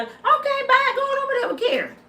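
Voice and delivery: mocking a man leaving for Karen, high and fast; dismissive mock voice. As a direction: shoo him off in a high mocking voice. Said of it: "'cause y'all".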